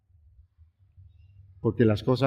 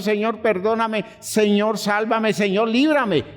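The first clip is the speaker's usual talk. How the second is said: pleading, higher, as if the ground shakes; begging prayer; 8 semitones higher than usual. Retold or imitated. Preacher voicing people in an earthquake, higher pleading. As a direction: beg the Lord for mercy, higher. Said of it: "no sale a la calle y le dice al Señor".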